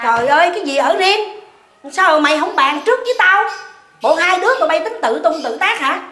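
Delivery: sharp, rising scolding mother; indignant scolding. Acted. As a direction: scold them for deciding alone. Mother angry about moving out. (bà mẹ giận dữ la mắng)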